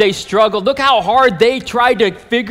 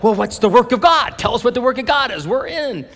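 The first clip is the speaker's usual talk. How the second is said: higher-pitched, keen questioning with a smile; smiling eagerness; 5 semitones higher, faster than usual. Acted. Smiling crowd asks Jesus for the work, eagerly. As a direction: ask like eager volunteers, lifting in pitch. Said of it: "like, smiling and still like".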